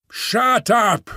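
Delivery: gruff beast silencing the ape-man; sharp command from the dark. A narrator's reading. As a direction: bark it out to silence him. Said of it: "said the voice from the dark".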